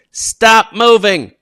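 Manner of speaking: mock a flustered teacher pleading "Stop moving."; squeaky stressed teacher. Shown as a demonstration. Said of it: "Don't say".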